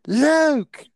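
high, drawn-out mocking yell of a desperate coach; mock coach shout. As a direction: parody the coach's useless order, high and slow. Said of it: "I got the shout from him".

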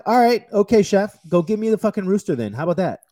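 loud, high-pitched challenge to a chef; re-enacted heated comeback; exasperated retort. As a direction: throw the dare back at the critic. Acted retort to critical chef.

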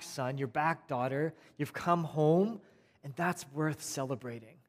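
soft, gentle father forgiving his son; quiet loving father's reassurance; tender father. Acted. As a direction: speak softly, welcoming him home.

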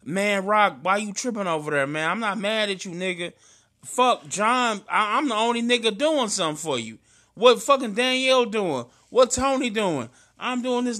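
mildly heated quote of a telling-off; retold going off. Retelling how his friend went off on him, moderately worked up. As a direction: imitate a friend's exasperated rant, building in force. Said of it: "you had went off on me".

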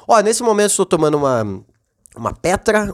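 talking between sips; while sipping a drink. Real, not acted. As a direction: speak right after a sip of beer. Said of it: "Deixa eu dar um gole aqui". (falando enquanto bebe)

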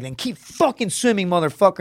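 barking drill instructor. Retold or imitated.

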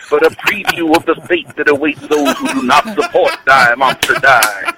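hint of a radio preacher; lightly voiced preacher sermon; Reverend Wolfman. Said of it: "This is the Reverend Wolf Man".

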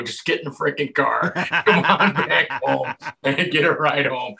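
urging friend. Retold or imitated. Teen pressing his buddy to get in the car, loud and insistent. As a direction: coax him into the car, loud.

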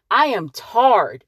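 slow "I am tarred" with "tarred" as "tard"; country "tarred". Shown as a demonstration. Explaining the country word to viewers, slow "tarred". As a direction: drawl out "tarred" like they say in the country. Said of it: "like they say in the country".

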